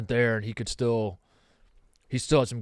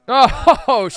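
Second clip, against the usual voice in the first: laughing groan; 11 semitones higher, 11 dB louder than usual. Real, not acted. Groans at joke punchline.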